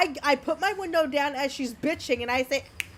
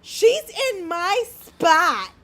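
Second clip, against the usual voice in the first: drawn-out, higher-pitched whine of protest; imitated slow, stretched grievance; mock complaint; 5 semitones higher, 4 dB louder, much slower than usual. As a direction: mimic an indignant tattletale slowly. Retold complaint of the angry woman.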